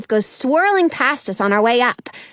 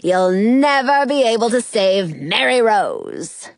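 slow gloating villain voice; wild unhinged ranting; 3 semitones lower than usual. Acted. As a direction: taunt like a storybook villain. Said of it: "the evil fairy".

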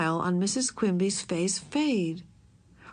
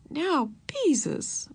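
gentle; 6 semitones higher, much slower than usual. A narrator's reading. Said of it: "Missus Quimby spoke gently".

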